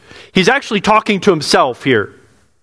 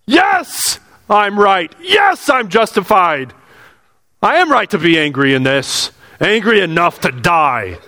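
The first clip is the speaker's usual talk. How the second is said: stubborn doubling down. Retold or imitated. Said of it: "you're gonna double down".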